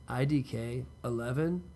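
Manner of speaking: slow, offhand I D K eleven; a lazy slow mock of the brother; drawled quote. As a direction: drag out "I D K eleven" lazily. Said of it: "that's what he says".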